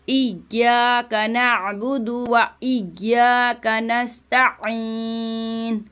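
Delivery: slow, drawn-out tilawat; Quran recitation. Shown as a demonstration. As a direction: recite slowly and clearly. (धीमी तिलावत)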